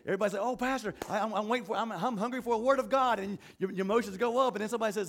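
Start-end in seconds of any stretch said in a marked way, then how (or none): 0.4-3.2 higher, keen greeting; lightly hammed-up eagerness; eager churchgoer. Church member greeting the pastor hungry for the word, eager.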